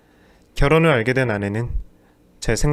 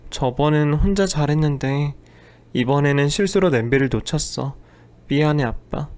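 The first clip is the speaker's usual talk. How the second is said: put-on small child's voice; 3 semitones higher than usual. Daughter apologizes to father after spilling ramen, timid.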